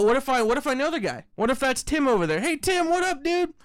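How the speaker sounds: breezy, friendly mock chat with a pal; casual buddy voice. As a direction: play it easygoing, chatting up a friend. Imagined friendly chat with Tim.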